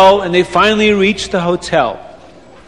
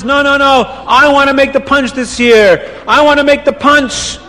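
insisting; 5 semitones higher than usual. Acted. Reb Chaim insisting to cooks.

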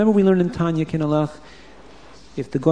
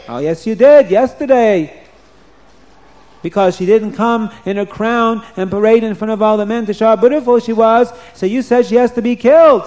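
guard explaining; 6 semitones higher, 3 dB louder than usual. Acted. Guard reminds the king.

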